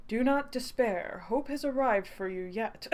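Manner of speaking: a slow, lightly voiced rescuer; rescuer's voice. Rescuer reassuring the fallen traveller, lightly voiced and slow. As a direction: say it slowly, calm and assured. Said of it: "I gotta give them a voice".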